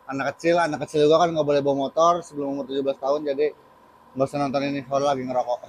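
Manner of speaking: talking while smoking; cigarette in mouth. Real, not acted. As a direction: speak around a cigarette. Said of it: "sebelumnya mohon maaf sambil merokok ya".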